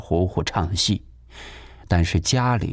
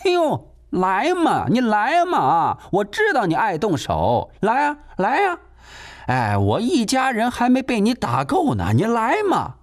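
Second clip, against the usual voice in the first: goading; 11 semitones higher than usual. Acted. Landlady daring the son to hit her, high and goading. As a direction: egg him on mockingly. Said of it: "嘴变得更硬起来".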